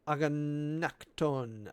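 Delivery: Aganakton drawn out slowly, syllable by syllable; Greek word slowly. Shown as a demonstration. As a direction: sound out Aganakton carefully. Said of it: "with indignation".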